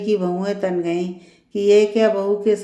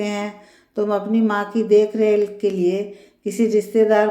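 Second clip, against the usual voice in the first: mildly raised, irritated mother-in-law; slightly raised voice. Acted. Mother-in-law scolds daughter-in-law on the phone, slightly raised voice. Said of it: "थोड़ी ऊंची आवाज़ में कहा".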